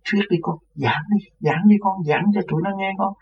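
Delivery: put-on an old man urging his son to preach; eager urging. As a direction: coax him to preach with growing urgency. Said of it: "Rồi ổng cứ kêu".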